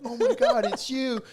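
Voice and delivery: high-pitched mock fan squeal; excited fangirl. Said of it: "then she gets really excited".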